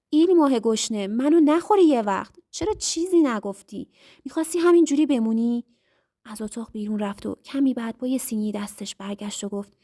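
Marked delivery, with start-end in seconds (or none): 0.1-5.6 loud teasing laugh in the voice; laughing loudly. A narrator's reading. Husband laughing at his hungry wife, loud and teasing. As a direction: tease her through big laughter. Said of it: "بلند خندید و گفت".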